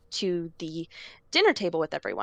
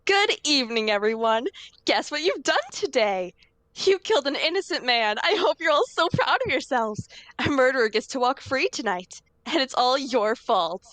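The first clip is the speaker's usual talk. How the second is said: voice changer; 4 semitones higher than usual. Acted. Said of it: "with the voice changer comes on".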